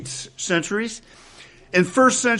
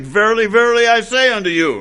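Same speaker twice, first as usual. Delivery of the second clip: Jesus' solemn phrasing; 7 semitones higher, 5 dB louder, faster than usual. Retold or imitated. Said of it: "his characteristic".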